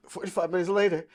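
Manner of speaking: a weary, pained repeat; heavy sigh. Real, not acted. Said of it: "sighs and repeats".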